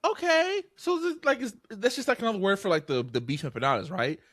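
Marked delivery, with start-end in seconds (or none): 0.0-2.2 mock sheepish reply. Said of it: "she was like".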